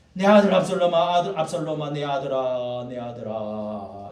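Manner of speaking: imitated weeping. Preacher imitating David weeping for his son, fading. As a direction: call out, then let the grief die away. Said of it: "이러면서 우는 거예요".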